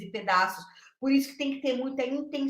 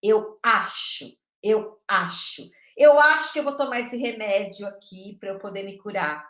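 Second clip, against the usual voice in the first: mock guesser; 6 dB louder than usual. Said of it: "pra gente se basear no achismo".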